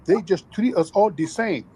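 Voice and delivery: mocking voice. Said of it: "The tethers love running up to us talking about".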